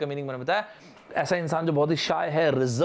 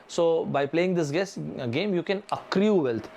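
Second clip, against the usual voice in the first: slow mock ad pitch; drawn-out imitation of a fantasy league ad; much slower than usual. Teacher imitates a fantasy league ad for students, slow mock pitch. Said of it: "ऐसे ही तो present करते हैं ना ऐड".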